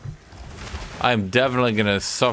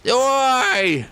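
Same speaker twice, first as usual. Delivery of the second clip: high, loud mock Scottish "Oi!"; 4 dB louder than usual. Mocking the Scottish teammate's call, Scottish accent. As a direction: bark it like a Glasgow lad, Scottish accent. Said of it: "He's like".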